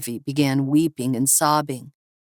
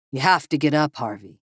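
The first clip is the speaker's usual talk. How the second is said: firm. Acted. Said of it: "Alaric said firmly".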